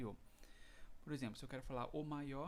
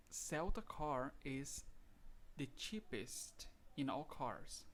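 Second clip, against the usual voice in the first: slow dictation read; much slower than usual. Shown as a demonstration. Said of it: "Se fosse o mais barato".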